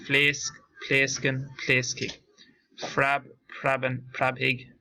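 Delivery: slow, careful listing of Irish verb forms; steady teacher's drill, each form set apart by pauses; pronunciation drill. Shown as a demonstration. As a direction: model each Irish word clearly for the class to copy.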